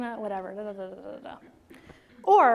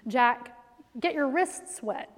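put-on slow, calm instruction to a small child; calm mom explaining; patient and practical; slower than usual. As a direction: keep it patient, still trying to be reasonable. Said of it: "So I was trying to be, like, practical".

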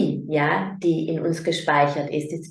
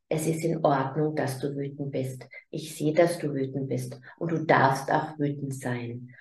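put-on gentle, much softer, calming words to an angry child; soft reassuring parent voice; accepting and soft; 2 semitones lower, 4 dB quieter than usual. Shown as a demonstration. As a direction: soothe the child quietly, letting the anger be. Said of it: "Dann lade dein Kind ein und sag".

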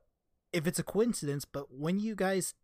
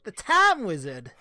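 anime card callout; 2 semitones higher, 5 dB louder than usual. Retold or imitated. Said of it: "anime card callout".

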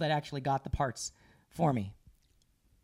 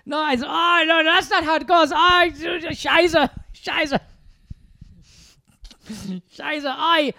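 mock German outburst, high and loud; hammed-up German director losing his temper, cursing; the German director blowing up over the yanking, in a mock German accent; exasperated German; 8 semitones higher, 6 dB louder, much slower than usual. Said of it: "Is he German?".

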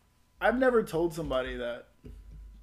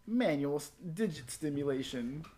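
game show answer voice. Acted. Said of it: "Why'd you use that voice?".

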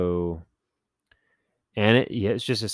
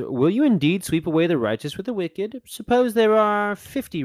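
higher, earnest retold plea to God; a light touch of Abraham bargaining for the city; Abraham pleading; 9 semitones higher, 5 dB louder than usual. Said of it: "Abraham says".

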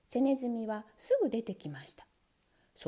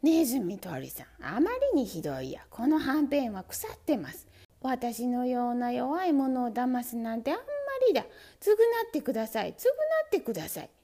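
louder indignant protest; angry complaint; 4 dB louder than usual. Acted. Mouse protesting the rotten bait, angry. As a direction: demand he make amends. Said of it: "怒って叫びました".

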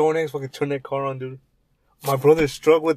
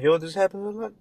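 lightly voiced neighbor, higher; higher mock neighbor; 6 semitones higher than usual. Friend imagines the neighbor answering, a touch higher. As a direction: toss it off like a neighbor.

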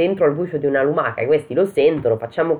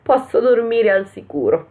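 high, little character voice; high, slow sigh of thanks to heaven; relieved Pollicino; 8 semitones higher, slower than usual. Acted. Pollicino sollevato, voce acuta. (vocina acuta e sollevata)

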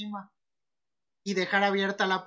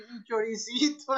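mock lament; 3 semitones higher, slower than usual. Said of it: "subió las escaleras así".

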